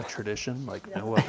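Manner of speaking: hushed golf commentator; Jim Nantz voice. Retold or imitated. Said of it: "He's got his Masters golf voice on".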